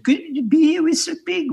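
high, put-on thick French accent. A stranger on a mountain bike greets him in a thick French accent. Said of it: "with this very thick French accent".

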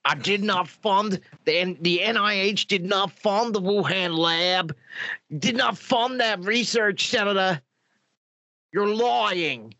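lightly voiced American health official under questioning; Tony Fauci. Fauci denying funding to a senator, rough impression. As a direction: put on an official's measured, indignant denial. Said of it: "I don't think I can do a Tony Fauci".

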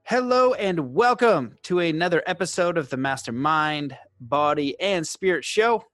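measured announcer read with punched key words; podcast intro read. Acted. Host formally introducing today's guest to listeners, podcast intro read. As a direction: read out a guest bio, phrase by phrase.

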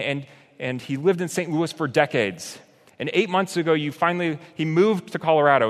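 anguished cry to God. Retold or imitated. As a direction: cry out your grief at God. Pastor voices his anguished prayer to God.

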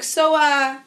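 imitating a hesitant kid, high and slow; kid's awkward question. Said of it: "later he was like".

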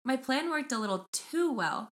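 measured storytelling read; reading aloud. Acted. Host reading crow story to co-host, measured read-aloud. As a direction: read the post out evenly, phrase by phrase. Reads Reddit post aloud.

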